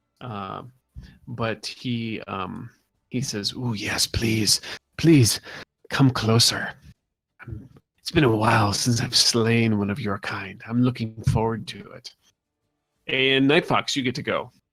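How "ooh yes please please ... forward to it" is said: hissing voice through the whole line. Narrator voicing a creature speaking to the players, hissing. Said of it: "he kind of hisses at you".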